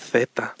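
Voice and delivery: "Z" as "theta", tongue between the teeth; Spanish Z. Shown as a demonstration. Teacher showing how Spain says it, lisped "Z". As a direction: start "Z" with a voiceless th. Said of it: "lo mismo con la Z, ellos dicen".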